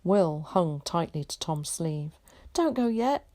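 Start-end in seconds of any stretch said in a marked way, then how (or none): 2.5-3.2 put-on high pleading boy's voice; urging. A narrator's reading. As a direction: hold him back, urgently. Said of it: "he urged".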